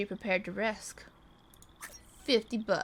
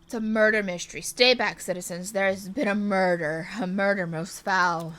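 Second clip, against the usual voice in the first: loud, theatrical detective announcing a murder; hammed-up detective call; dramatic detective; 2 semitones lower, 6 dB louder than usual. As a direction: proclaim it to the crowd like a stage sleuth. Voices the detective.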